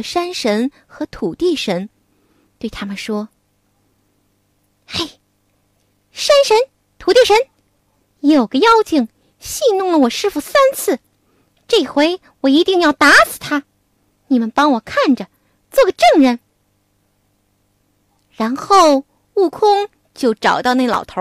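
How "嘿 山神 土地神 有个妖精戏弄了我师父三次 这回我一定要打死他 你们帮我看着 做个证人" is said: commanding Monkey King. Acted. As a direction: summon the gods with urgency. Wukong calls the mountain gods.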